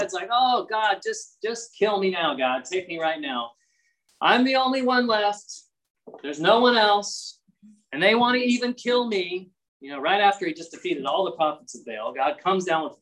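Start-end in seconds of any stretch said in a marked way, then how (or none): 0.3-9.5 mildly acted plea to God; mock despairing cry. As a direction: play a worn-out prophet lamenting. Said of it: "he's crying out to God".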